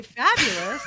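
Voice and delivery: fabulous said with an audible smile; smiling voice. Shown as a demonstration. Showing that a smile can be heard, smiling voice. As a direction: smile right through the word fabulous. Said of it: "you can hear it".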